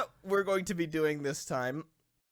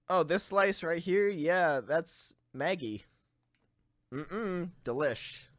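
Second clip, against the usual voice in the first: savoring cannibal; 4 dB quieter than usual. Pretend. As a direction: savor every word like a tasting. Imagined cannibal savoring meat.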